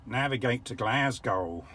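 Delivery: slow, poor imitation of an American accent; mock American accent, spoken slowly and clearly. Shown as a demonstration. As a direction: badly fake an American accent at the car. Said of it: "my very poor rendition of a, an American accent".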